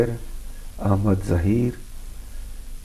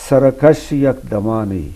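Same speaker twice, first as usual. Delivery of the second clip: ghazal recitation; 3 dB louder than usual. Acted. Poet offering a ghazal to the host, measured recitation. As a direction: recite it in measured, weighted phrases.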